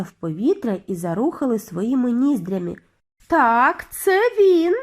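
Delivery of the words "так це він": loud, high confirmation; loud, rising witch's shout; excited call. A narrator's reading. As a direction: cry out in agreement from the crowd. Another witch calls out agreement.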